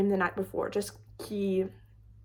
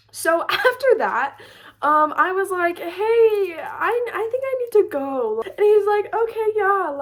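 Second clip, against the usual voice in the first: laughing; 7 semitones higher, 6 dB louder than usual. Real, not acted. Giggly retelling.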